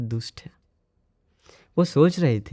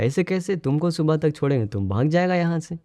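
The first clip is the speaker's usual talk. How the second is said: higher, quick mock challenge; retold incredulous objection; 5 semitones higher than usual. Thug refuses the monk time till morning, mild disbelief. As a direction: object in disbelief, lightly acted. Thugs doubt the monk's request.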